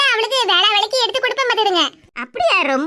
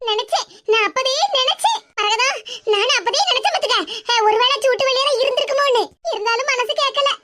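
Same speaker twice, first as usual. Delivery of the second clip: relieved laughing grandmother; 5 semitones higher than usual. Acted. Grandmother relieved after good news.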